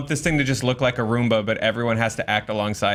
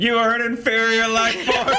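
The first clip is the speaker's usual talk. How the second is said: cold menacing robot voice; 10 semitones higher than usual. Pretend. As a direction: speak like a superior machine. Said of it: "when the robot starts saying".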